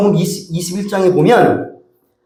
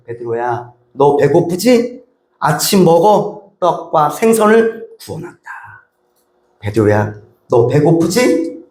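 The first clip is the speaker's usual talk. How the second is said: tender; slower than usual. Shown as a demonstration. Jesus gently inviting Peter to eat, tender. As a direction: coax a hungry friend to breakfast. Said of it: "딱 이렇게 말씀하시는 거예요".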